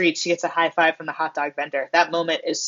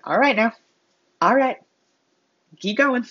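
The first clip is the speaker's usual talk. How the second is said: stern encouragement, pitched up in short bursts; higher-voiced coach urging a fighter on; Coach Taylor; 6 semitones higher than usual. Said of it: "It's a very stern encouragement".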